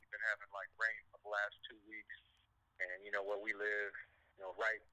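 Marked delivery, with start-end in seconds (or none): 0.0-2.2 thin phone-line voice; talking through a phone call; over the phone. Real, not acted. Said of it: "we're on the phone right now".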